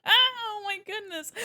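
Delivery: high, giggly hello; laughing greeting. Real, not acted. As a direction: laugh through the welcome. Laughing greeting to a chat member.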